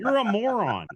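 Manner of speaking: high, laughing mock jab; laughing insult. Mock retort to heckling fan.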